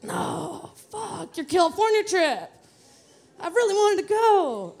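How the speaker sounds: high-pitched selfish inner devil; little devil on shoulder. Retold or imitated. Devil on her shoulder mourning the California trip, high selfish protest. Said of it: "that little devil on my shoulder is like".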